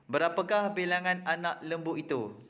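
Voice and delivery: "Berapakah bilangan" lifted in a careful question tune; "Berapakah bilangan anak lembu itu" read out as a clear question; question intonation. Shown as a demonstration. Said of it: "Baca ayat berikut dengan intonasi yang betul".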